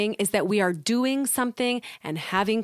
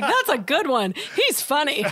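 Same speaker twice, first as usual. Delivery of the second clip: amused at oneself; 5 semitones higher than usual. Retold or imitated. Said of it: "laugh at yourself".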